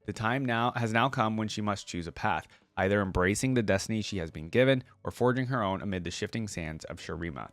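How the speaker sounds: steady storyteller read of legend lore; story narration. Acted. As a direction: read it like an epic tale to viewers. Reading game lore aloud.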